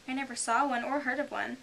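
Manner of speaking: Alice voice. A narrator's reading.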